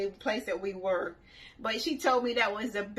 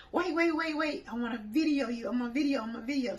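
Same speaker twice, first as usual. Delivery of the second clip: yelling out; faster than usual. Retold or imitated. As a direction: call across the water to stop her. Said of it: "I yelled at her".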